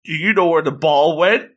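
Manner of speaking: play-acted call across a distance; mild mock shout. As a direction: imitate a girl calling after him. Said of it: "she shouts out".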